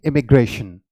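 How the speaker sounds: इमिग्रेशन starting with the "i" of ink; immigration demonstrated. Shown as a demonstration. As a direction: say इमिग्रेशन clearly for the class. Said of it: "इसकी pronunciation क्या हो जाएगी". (इमिग्रेशन, इंक वाला "इ")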